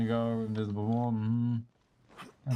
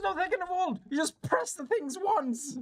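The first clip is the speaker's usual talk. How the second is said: high, exasperated mock outrage; mock indignant. Gamer mocking the fiddly controls, high squeal. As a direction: squeal it in hammed-up disbelief.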